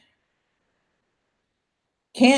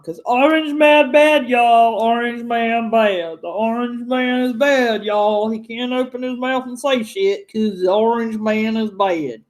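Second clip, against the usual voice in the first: sarcastic. Pretend. Mocking anti-Trump sentiment.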